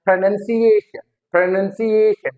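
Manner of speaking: "pronunciation" as pro-nun-si-AY-shun; stress on A. Shown as a demonstration. Teacher drilling the stress rule, stressed on AY. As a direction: lean on the AY in "pronunciation". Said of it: "ए पे आता है".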